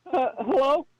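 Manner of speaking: put-on squeaky voice. Caller putting on a voice.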